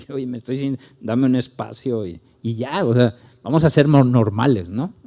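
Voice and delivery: hesitant mock request for space; awkward halting version. Shown as a demonstration. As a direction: fumble the words like an embarrassed excuse. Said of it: "es más normal decir".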